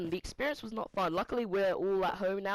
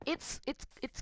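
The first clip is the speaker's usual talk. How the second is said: higher, soft whisper; 6 semitones higher, 6 dB quieter than usual. Real, not acted. Describing schoolmates talking about him, whispered. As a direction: breathe it out under the breath.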